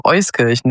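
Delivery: Euskirchen stressed on EUS; stress on first syllable. Shown as a demonstration. Guest teaching the host her birthplace's name, Euskirchen stressed on the first syllable. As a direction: put the weight on the Eus of Euskirchen. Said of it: "die Betonung liegt".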